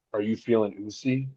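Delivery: understated, very monotone delivery; deadpan monotone question. Acted. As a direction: say it level, like Roman Reigns. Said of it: "just very monotone".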